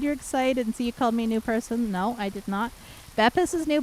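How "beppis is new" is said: playfully high, teasing that Beppis is new; mock claim. Teasing chat member over being new, playfully high. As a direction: tease the chat, sing-song and high.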